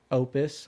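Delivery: OPUS with a long O, "OH-pis"; pronunciation demo. Shown as a demonstration. Host checking how the title is said, long-O OPUS. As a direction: say OPUS slowly, first vowel as in "open". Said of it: "How do you say".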